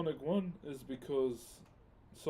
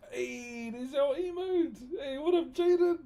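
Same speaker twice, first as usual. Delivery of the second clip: excited; 12 semitones higher, 6 dB louder than usual. Real, not acted. Excited greeting to chat.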